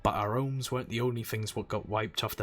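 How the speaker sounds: gruff old sailor brogue, lightly put on; a dock-boss accent, lilting; pirate accent. Old sailor welcoming a newcomer, lightly accented. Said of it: "How terrible is my accent?".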